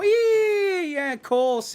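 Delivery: squealed, very high mock Scouse; Scouse accent. Streamer teasing Scousers in the chat, high-pitched Scouse accent. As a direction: squeal the first sound in exaggerated Scouse. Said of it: "Any Scousers in the chat?".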